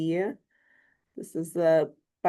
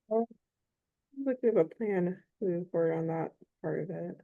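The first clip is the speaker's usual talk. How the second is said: muffled voice, like through a hand; speaking behind a covered mouth; 5 dB quieter than usual. Real, not acted. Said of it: "you're kinda, like, muffled".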